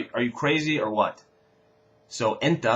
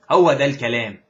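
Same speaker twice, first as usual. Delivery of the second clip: cheering هو ده الكلام louder; excited cheer; 2 semitones higher, 9 dB louder, much faster than usual. Shown as a demonstration. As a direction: celebrate a home run. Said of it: "somebody hits a home run". (fan cheering a home run, excited)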